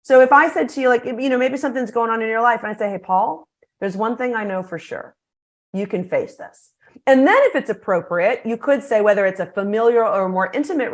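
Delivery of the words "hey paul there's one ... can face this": softer, sincere and grounded; reassuring. Shown as a demonstration. Speaker to Paul, whose life is hard, softer and sincere. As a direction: let him know you believe in him. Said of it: "the magical phrase of".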